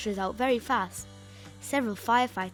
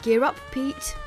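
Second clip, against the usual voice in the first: calling out; 11 semitones higher, 3 dB louder than usual. Acted. Firefighters call out at the alarm.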